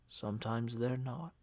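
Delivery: "not" leaned on, soft and heavy; stress on not. A narrator's reading. Uncle Jed hinting at blame, soft with "not" weighted. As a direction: land hard on "not" while staying quiet. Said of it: "The way he emphasized the word "not".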